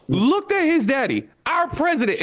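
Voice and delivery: gaze up wide-eyed at daddy; a son's hushed awe at his daddy; mock childlike wonder. Imagined Barron looking at dad.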